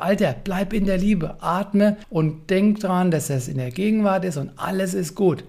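slow, calm self-talk. Pretend. Dad reminds himself to stay loving, slow and calm. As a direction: talk yourself back into calm, slowly.

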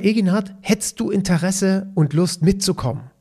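lightly acted call across a room; calling after someone. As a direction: imitate calling after someone who is leaving. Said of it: "rief er mir hinterher".

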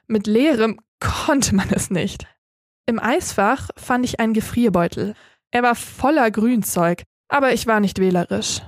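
plain reading voice

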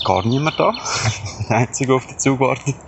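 talking while walking along; walking and talking, a little breathy. Real, not acted. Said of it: "Ich laufe gerade am Bahnhof".

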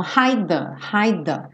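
"hide the" with one tongue touch for both sounds; single joined D. Shown as a demonstration. Teacher says tongue goes only once, linked pronunciation. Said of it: "Eu só vou uma vez com a minha língua".

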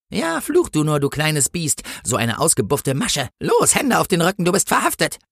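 high-pitched taunt into arrest order; taunt, then order in a high voice; scornful policewoman. Acted. Policewoman arrests the cursing angel, high and scornful.

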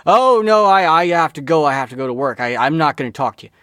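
high, loud flustered brush-off; mock panic to get away; agitated protest. Retold person panicking to leave.

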